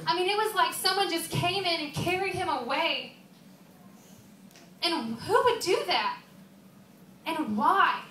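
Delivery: upset, bewildered questions rising in pitch; distraught questioning. Acted. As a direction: demand answers in grief and disbelief. Distraught over the empty tomb.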